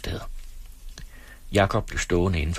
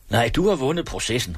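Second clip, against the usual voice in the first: shouted; 6 semitones higher than usual. A narrator's reading. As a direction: call out the verdict in a raised voice. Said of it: "råbte obersten". (let råbende udbrud)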